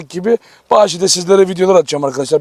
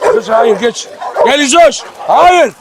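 calling the dog off; 4 semitones higher, slower than usual. Real, not acted. Calling dog away from fight.

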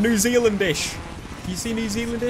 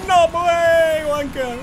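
high, drawn-out taunt; jeering shout; 8 semitones higher, 4 dB louder, much slower than usual. Real, not acted. Gamer mocking a rival driver, high jeering call. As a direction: heckle loudly, stretching the words.

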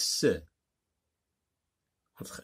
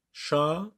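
"Chaloupe" as cha, lou, pe with long gaps; split into syllables; 4 semitones higher than usual. Shown as a demonstration. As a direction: sound out each syllable of "Chaloupe". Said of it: "la troisième syllabe".

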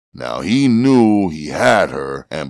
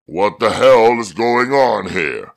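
demanding officer; 6 semitones higher, 4 dB louder than usual. A narrator's reading. Second officer arrives at commotion.

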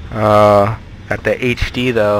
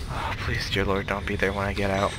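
whispered prayer; 3 semitones lower, 9 dB quieter than usual. Real, not acted. Praying while hiding.

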